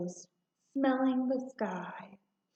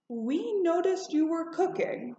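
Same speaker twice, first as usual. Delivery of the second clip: neighbour laughing; 7 semitones higher than usual. A narrator's reading. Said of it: "Mister Fitzgerald laughed".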